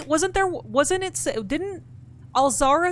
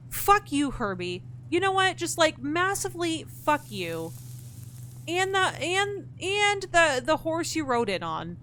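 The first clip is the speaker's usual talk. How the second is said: pitched-up mock rage at the game; venting in high exasperation; mock outburst; 5 semitones higher than usual. Real, not acted. Player cursing out Herbie in pitched-up mock rage.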